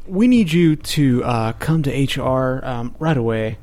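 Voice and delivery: slow, halting reading in a lightly voiced HR officer's role; mock HR summons. Storyteller quotes HR's email, slow mock-official voice.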